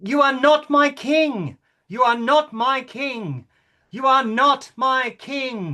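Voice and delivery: belted shout. Shown as a demonstration. King performs the queen's heckle as a shout. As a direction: belt it out at the king. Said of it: "Please belt it out as loud as she said it".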